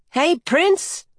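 high, small voice with a mild scold; small bird's high-pitched, lightly scolding greeting; small, slightly scolding. A narrator's reading. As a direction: call out in a little scolding chirp. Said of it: "slightly scolding voice".

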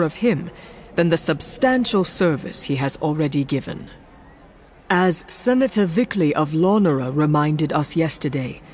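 lightly voiced solemn statesman; calm, measured and serious; grave senator. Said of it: "his grave tone".

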